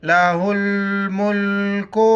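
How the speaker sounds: लहुल मुल्को with हा run into लाम; लहुल मुल्को chanted with the lams linked on; joined consonants. Shown as a demonstration. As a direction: recite लहुल मुल्को, joining हु to ल and मु to ल. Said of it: "हा को लाम के साथ प्लस कर लेंगे".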